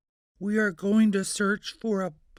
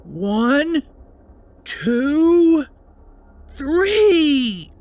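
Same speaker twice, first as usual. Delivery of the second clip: counting up; 4 semitones higher, 5 dB louder, much slower than usual. Acted. Counting to the big scare.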